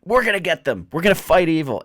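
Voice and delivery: high, loud little creature war cry; rally like a tiny creature charging into battle; shrill-pitched, gung-ho mascot voice; excited Porg. Acted. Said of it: "And this Porg's like".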